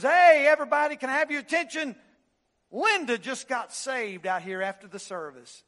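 loud, high call for attention; pastor's announcement. Retold or imitated. Pastor calling out to diners in the hall, loud announcement. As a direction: call over the fellowship hall crowd. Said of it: "he says".

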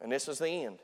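low, soft, defeated; hushed despair. Retold or imitated. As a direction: say it like all hope is gone. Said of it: "We got on this boat following Jesus".

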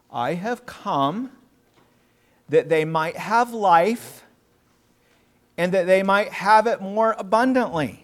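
slow, deliberate, with long pauses; preacher slowing down to land the key verse; slow emphatic quote. Acted. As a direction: lay each phrase down like a weighty verse.

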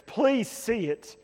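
gentle plea. Real, not acted. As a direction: ask them gently to understand.

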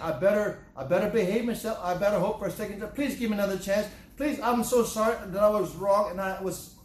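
high, pleading apology; anxious begging for mercy. Acted. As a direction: plead for another chance. Voicing a begging person.

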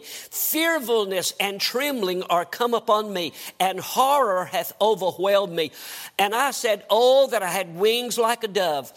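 declaimed psalm with fervor; scripture reading. Real, not acted. Preacher reads David's psalm to the church, declaimed.

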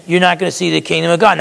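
a teacher fed up with small talk; voicing an impatient Jesus to Nicodemus, exasperated. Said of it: "do you sense the lack of patience?".

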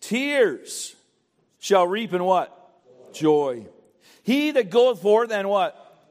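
slow, drawn-out scripture read with pauses for the congregation; fill-in-the-blank reading. Real, not acted. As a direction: read it out and leave gaps for them to answer. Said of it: "Verse five says, help me fill in some blanks".

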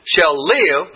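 Shall live, with live lifted and set apart; stress on live. Shown as a demonstration. Teaching the class, he singles out live with stress. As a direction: lean on the word live. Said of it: "that's another word".

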